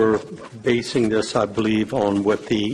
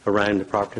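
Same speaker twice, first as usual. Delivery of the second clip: strained, fading voice; hoarse voice; faster than usual. Real, not acted. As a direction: voice giving out. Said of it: "I'm losing my voice".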